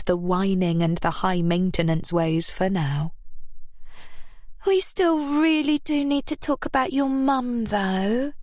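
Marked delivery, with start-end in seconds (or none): 4.7-8.3 a touch higher, pressing voice; Chastity pushing her lover about his mum. A narrator's reading. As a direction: press him gently. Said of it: "she pushed".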